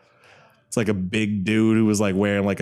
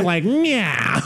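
laughing. Real, not acted. Laughing after the impression.

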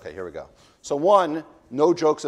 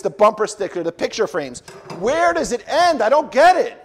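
rising, higher and louder complaint; mock exasperated complaint; 6 semitones higher, 7 dB louder than usual. Reading a listener's email about merch, mock exasperated. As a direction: build up the outrage to a squeak. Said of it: "reading letter complaining about sponsorship".

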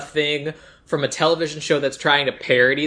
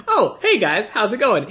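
higher, laughing through it; laughing mock greeting; 5 semitones higher than usual. Mocking her hello to the audience, laughing. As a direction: giggle out a fake perky hello. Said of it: "be like".

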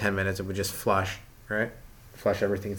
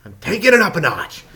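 righteous fuming; 2 semitones higher than usual. Retold or imitated. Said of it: "My, like, code of righteousness goes".

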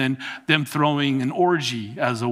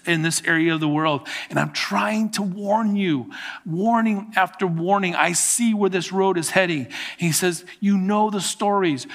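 urgent plea to the congregation, raised pitch; Jude pleading; 3 semitones higher than usual. Acted. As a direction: beg the church to turn back. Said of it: "This is Jude pleading".

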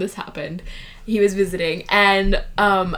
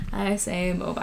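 British mobile; 8 dB quieter than usual. Shown as a demonstration. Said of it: "British pronunciation".

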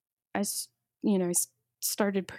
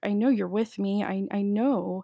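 louder pleading cry to God; pleading prayer; 4 dB louder than usual. Retold or imitated. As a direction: beg God for help out loud. Retold desperate prayer.

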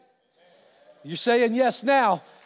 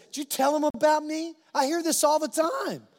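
higher-pitched, lightly suspicious questioning; mock accusing; 6 semitones higher than usual. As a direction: play a churchgoer mildly accusing a spouse. Acted suspicious churchgoer questioning spouse.

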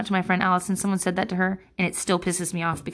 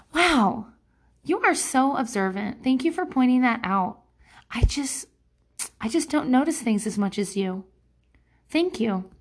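mock-sweet comeback; 4 semitones higher than usual. Shown as a demonstration. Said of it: "my advice is gonna be".

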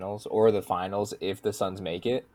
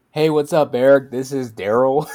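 Daryl voice; 4 semitones higher, 9 dB louder than usual. Retold or imitated. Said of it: "He just love".

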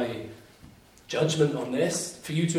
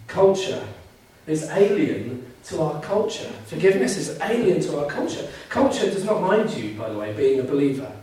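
higher and louder, punching "Culture"; emphatic preaching; 3 semitones higher, 4 dB louder than usual. Real, not acted. Preacher announcing his first point with rising force. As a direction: drive the point home to the congregation.

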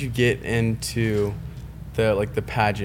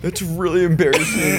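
laughing teasing; 5 semitones higher, 4 dB louder than usual. Real, not acted. Teasing friend about tongue.

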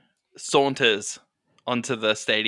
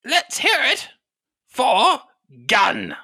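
arena announcer; 12 semitones higher, 5 dB louder, slower than usual. Acted. Announcer asks the crowd to cheer Gun, high call. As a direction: call high to the crowd, pause before the name.

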